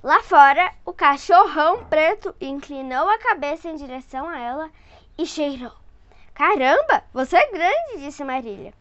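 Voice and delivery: put-on lively read-aloud voice for a child; storyteller voice for a little one; story narration. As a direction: read it like a bedtime picture book. Reading picture book to child.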